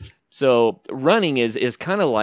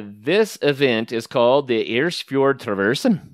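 fake Norwegian accent. Shown as a demonstration. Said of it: "put my fake Norwegian accent on it".

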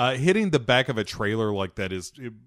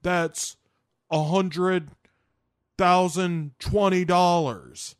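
hammed-up haggling hustler; 6 semitones higher than usual. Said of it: "Nicolas Cage ... is like".

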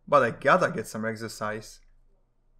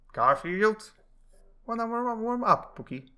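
much higher teasing call; sing-song up into a high tease; high mock call to the cat; 10 semitones higher, 3 dB louder than usual. Jon calling Garfield from bath.

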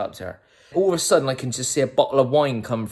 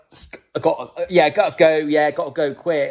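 flustered excuse; 6 semitones higher, 5 dB louder than usual. Retold or imitated. Flustered hurried exit, acted.

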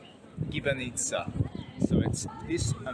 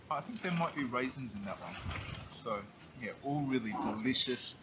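words muffled by food; chewing between words; talking while chewing; 6 dB quieter than usual. Real, not acted. Seen 0: bites dumpling at -2, jaw chewing while talking, dumpling in hand.

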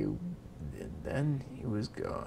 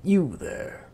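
loud, higher royal call; commanding king; 5 semitones higher, 7 dB louder than usual. Acted. King calls out to miller.

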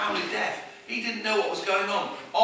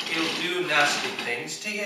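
menacing; 2 semitones lower, 3 dB quieter than usual. Retold or imitated. Mum scares her little boy about the bogeyman, menacing. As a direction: imitate a mother lowering her voice to menace. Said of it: "in a really menacing voice".

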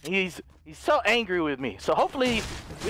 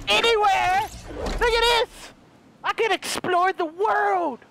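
excited; 10 semitones higher, slower than usual. Real, not acted. Gleeful flying off launch pads.

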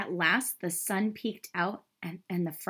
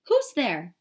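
high, louder swan call; 5 semitones higher, 7 dB louder than usual. A narrator's reading. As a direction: call out to someone hidden. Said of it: "called the swan".

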